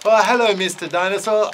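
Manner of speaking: breezy, teasing little bat; bat puppet voice. Acted. Bat puppet talks to dinosaur.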